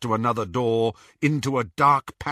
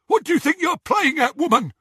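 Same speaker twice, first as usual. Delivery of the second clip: high, loud snatcher challenge; angry snatcher; 5 dB louder, faster than usual. A narrator's reading. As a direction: bark at the woman. Scabior voiced in narration.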